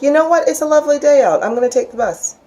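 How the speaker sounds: a chirpy shrug-it-off tone; breezy upbeat. Retold or imitated. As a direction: sing it out like nothing's wrong. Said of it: "you go like".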